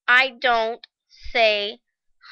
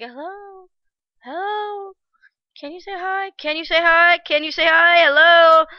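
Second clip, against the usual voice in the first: starts far off and faint, then swells louder; voice fading in; 6 semitones higher, 4 dB louder than usual. Retold or imitated. The host's greeting breaking through her daze, fading in louder. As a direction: call from far away, growing nearer and louder. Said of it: "it got louder and louder".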